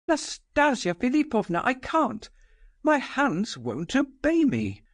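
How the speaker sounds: high, pleading and lost; a frightened servant who can't bring himself to do it; helpless bewilderment. Acted. Ferdishenko begging Nastasia to spare him, high and helpless. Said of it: "astounded and helpless with bewilderment".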